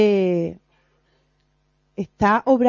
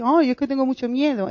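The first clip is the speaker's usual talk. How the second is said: half-hearted imitation of a fearful complainer; whiny fearful excuse; 3 semitones higher than usual. Teacher mimicking believers who excuse themselves, mildly whiny. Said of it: "yo también lo he dicho mucho".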